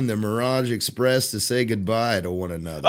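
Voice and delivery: a hint of kindly retiring conductor; lightly voiced train conductor. Conductor announcing his last day, lightly voiced role. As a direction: lightly play a veteran conductor saying farewell.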